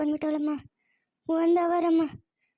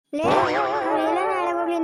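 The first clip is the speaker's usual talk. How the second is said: slow, angry call, a touch louder; angry shout; 3 dB louder, slower than usual. Acted. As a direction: lash out at the relatives. Angry outburst at the relatives.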